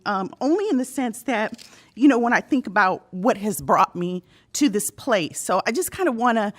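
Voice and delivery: fighting back tears mid-speech; teary-eyed. Real, not acted. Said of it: "sorry, I get a little teary-eyed".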